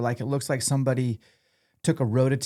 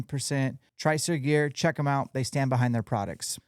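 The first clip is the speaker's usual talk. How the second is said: steady, upbeat podcast ad delivery; sponsor ad read; 2 semitones higher than usual. Acted. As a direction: read the sponsor plug clearly and smoothly. Reads a sponsor ad.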